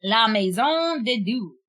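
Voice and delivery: very slow La Maison Dieu, maison as may-ZOHN; careful French. Shown as a demonstration. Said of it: "I'm trying to say it properly".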